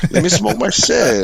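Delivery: a slow lazy brush-off; lazy stoner voice. Retold or imitated. Host mocks New Yorkers with laid-back LA stoner voice, slow.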